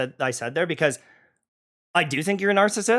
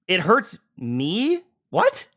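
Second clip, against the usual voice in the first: incredulous; 2 semitones higher, much slower than usual. Real, not acted. Disbelief at misquote.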